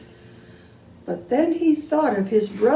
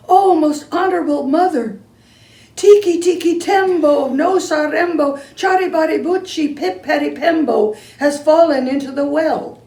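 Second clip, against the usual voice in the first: raised, higher urgent plea; boy calling for help, louder; urgent call to mother; 5 semitones higher, 3 dB louder than usual. Acted. Chang calls urgently to mother.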